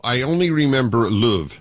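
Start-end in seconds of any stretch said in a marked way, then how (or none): 1.1-1.6 Yorkshire "luv" with a rounded vowel; Yorkshire accent. Shown as a demonstration. Host recalling the local endearment, Yorkshire accent. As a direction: say it as they do in Leeds. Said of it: "able to mimic a Yorkshire accent".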